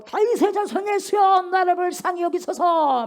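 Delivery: crying out loud and slow; desperate shout. Acted. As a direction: shout with all your strength for mercy. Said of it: "외치는 거예요".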